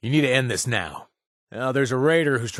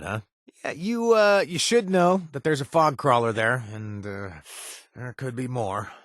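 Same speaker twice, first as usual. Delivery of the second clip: ordinary talk, nothing marked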